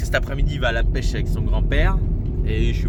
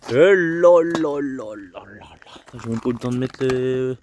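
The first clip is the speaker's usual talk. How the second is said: whispering; 2 semitones lower than usual. Real, not acted. Hot bread out of oven.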